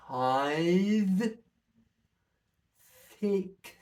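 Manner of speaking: slow count with the tongue pressed behind the bottom teeth. Shown as a demonstration. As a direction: count with the tongue pushed forward. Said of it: "Tip of the tongue behind the bottom teeth".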